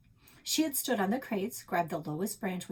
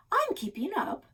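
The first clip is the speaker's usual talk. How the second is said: yell; 13 semitones higher, 4 dB louder than usual. A narrator's reading. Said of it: "Alex yelled".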